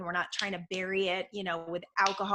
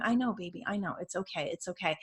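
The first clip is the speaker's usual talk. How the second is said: soothing; 3 dB quieter than usual. Retold or imitated. Soothing crying child.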